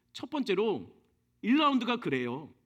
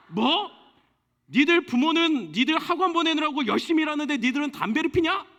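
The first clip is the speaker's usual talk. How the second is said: put-on a higher, indignant old man's scolding; scolding grandfather; 6 semitones higher, 4 dB louder than usual. Old man scolding back-talking high schoolers, indignant.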